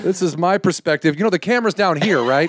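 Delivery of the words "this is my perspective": slow, grand mock director; pompous director. Teasing the director perched on a crane, grand and slow. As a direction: announce it from up on the crane. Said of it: "He just sits up there like".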